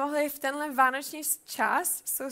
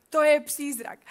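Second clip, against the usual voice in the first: loud frightened cry, falling at the end; fearful cry; 7 dB louder than usual. Acted. Disciples in the boat see a figure on the water, frightened cry. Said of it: "a křičeli strach".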